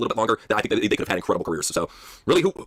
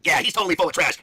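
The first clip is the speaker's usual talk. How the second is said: Oscar; 8 semitones higher, slower than usual. Acted. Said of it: "Don't you think so, Oscar?".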